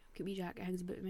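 quick secretive whisper; whispered secret about wee Jack. Real, not acted. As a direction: hush it fast, conspiratorial. Secret about ghost companion.

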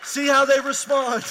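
teasing the married folks at full volume; loud preaching. Real, not acted. Preacher pushes playful point hard.

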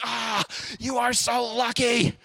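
put-on drawn-out, longing kid voice, slow; slow envious sigh. Boy longing for friends' dangerous games, slow and envious.

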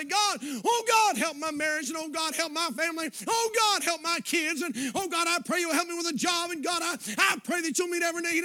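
loud, pleading cry to God; fervent prayer. Pretend. Preacher showing the congregation how to pray, loud pleading cry. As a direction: beg God with all your heart.

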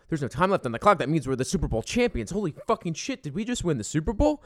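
high, loud mock disbelief at the win; retold disbelief. Fan realizing his team won, yelling in disbelief. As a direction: relive the stunned joy, voice cracking upward. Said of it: "and then you're like".

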